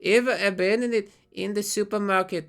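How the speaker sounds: put-on high, slow, whiny lost-child voice; Blaze the Movie Fan lost. Lost in a supermarket, calling for his mother in a high whine. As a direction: wail for Mommy like an abandoned man-child. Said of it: "this is my impression of, uh, Blaze the Movie Fan if he was lost at the supermarket".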